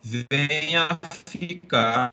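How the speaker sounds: slowed choppy connection; glitchy audio. Real, not acted. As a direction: voice dragging through lag. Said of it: "O áudio tá falhando".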